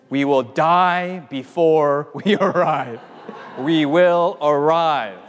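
slow, emphatic declaration of resolve; hammed-up road-trip determination, word by word; mock-solemn refusal. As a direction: lay down the law, slowly. Acts stubborn driver refusing child.

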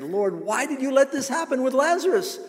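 high, pleading cry; high-pitched pleading sister; pleading Martha. Acted. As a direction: beg the Lord in anguish. Preacher voices Martha's plea.

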